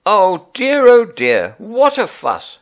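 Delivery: high, loud fussing mother; a flustered mother arriving red in the face; flustered mum. A narrator's reading. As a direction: flap about like a harried mum.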